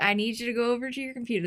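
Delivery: a hint of Arkansas Southern accent; grandpa's quick line with a light Southern accent. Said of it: "This is my southern accent".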